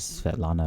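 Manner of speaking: Svetlana said the most English way possible; English pronunciation. Shown as a demonstration. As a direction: say Svetlana with plain English sounds, no Russian accent. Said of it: "say this in the most English way possible".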